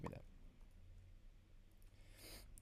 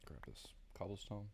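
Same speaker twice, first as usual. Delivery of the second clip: whisper; 12 dB quieter than usual. Real, not acted. Muttering aside while playing.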